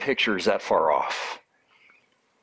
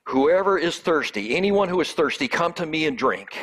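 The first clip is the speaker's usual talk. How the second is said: raised, higher-pitched call to a crowd; mild retold yell; 4 semitones higher than usual. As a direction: call it out higher, without really shouting. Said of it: "he yells out to everyone there".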